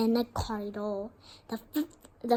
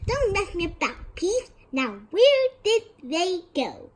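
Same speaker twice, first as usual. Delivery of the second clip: urgent, high-pitched questioning; agitated, impatient interrogator; demanding caretaker; 6 semitones higher than usual. A narrator's reading. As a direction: press for an answer, voice raised in pitch. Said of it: "Filch was saying".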